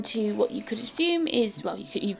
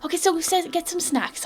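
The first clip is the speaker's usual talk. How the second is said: much higher, louder fussing matron; housekeeper voice; 9 semitones higher, 7 dB louder than usual. Acted. Housekeeper greeting the adventurers at the door, much higher and louder. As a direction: greet them like a bustling old housekeeper. Mary answers master.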